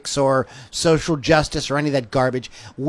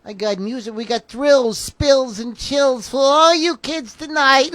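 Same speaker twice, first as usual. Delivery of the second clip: high hyped barker voice building up; carnival barker; 9 semitones higher, slower than usual. Acted. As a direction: hype the crowd like a circus barker.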